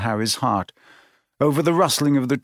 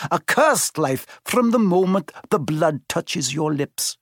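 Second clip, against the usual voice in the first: solemn, raised centaur warning; ominous centaur, higher; grave centaur voice; 6 semitones higher than usual. A narrator's reading. Firenze speaks.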